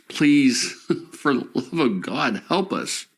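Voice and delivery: begging strangers for help, close to tears; desperate plea. Real, not acted. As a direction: voice cracking, pitch jumping up as she begs. Resident pleading for help.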